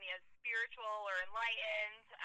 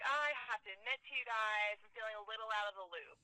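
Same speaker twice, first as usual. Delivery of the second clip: stand-up bit voice. Retold or imitated. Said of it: "my opening bit is like".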